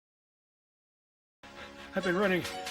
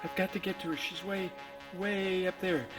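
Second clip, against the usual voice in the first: panting, urgent gasps between phrases; breathless and desperate; out of breath; 2 semitones higher than usual. Acted. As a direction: puff it out as if you've been running. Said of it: "You're really breathing hard".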